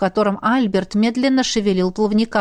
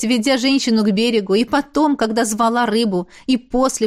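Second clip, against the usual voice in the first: plain reading voice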